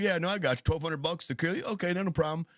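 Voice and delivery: casually agreeable contract killer, lightly voiced; breezy hitman voice. Imitating the killer agreeing, breezy. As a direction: shrug it off like a cheap hitman.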